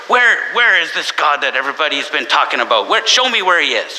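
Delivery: a lightly voiced eager kid; demanding child. Child bursting into church demanding to see God, lightly voiced. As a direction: insist like a curious little boy. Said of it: "he burst into the church".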